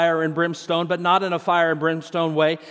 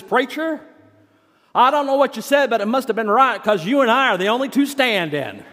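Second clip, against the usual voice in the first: deacon's reply; 5 semitones higher, faster than usual. Retold or imitated. Deacon answers the pastor.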